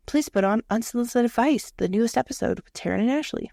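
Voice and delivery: mild over-clear request; careful command to Alexa. Shown as a demonstration. Demoing how she asks Alexa, over-clear. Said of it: "I will say it that way".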